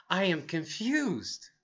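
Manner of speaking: soft, slow puzzlement; mildly acted confusion; confused. Shown as a demonstration. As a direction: say it slowly and softly, baffled. Models a confused expression.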